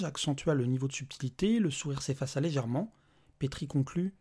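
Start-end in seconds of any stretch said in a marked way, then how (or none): none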